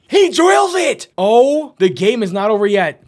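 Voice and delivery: high, loud hype call; announcer losing it over a clutch three; excited shout. Real, not acted. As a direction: erupt as the shot falls. Buzzer shot, commentator erupts.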